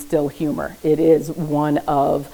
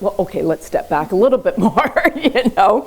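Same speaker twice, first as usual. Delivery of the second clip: amused mock therapist; 4 semitones higher than usual. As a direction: laugh breaking into the line. Acts therapist, laughing at the back-tracking.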